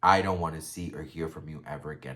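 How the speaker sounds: low, measured imitation of his warning; calm. Vlogger quoting the tearful man warning Sebastian off, calmly. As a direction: keep the threat controlled and even. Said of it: "he just says really calmly".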